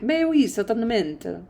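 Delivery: bad French accent. Shown as a demonstration. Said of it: "It sounds Italian".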